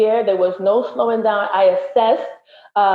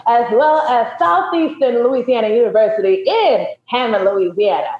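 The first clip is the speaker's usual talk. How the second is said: voiceover voice. Pretend. Guest shouting out her alma mater, voiceover voice. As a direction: put on a voiceover voice for a big shout-out. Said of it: "she got the voiceover voice".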